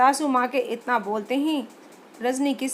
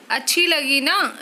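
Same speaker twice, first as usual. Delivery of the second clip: hopeful, coaxing question; fishing for a compliment, lightly voiced; hopeful wife; 2 semitones higher, 4 dB louder than usual. Wife hoping husband liked the food, coaxing. Rajni seeks praise.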